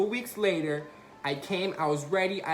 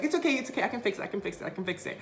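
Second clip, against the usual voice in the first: frantic reassurance; 5 semitones higher, 3 dB quieter, much faster than usual. Retold or imitated. Frantic reassurance after hitting cone.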